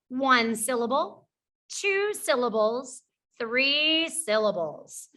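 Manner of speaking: slow read-out. Shown as a demonstration. Reading out the sort headings.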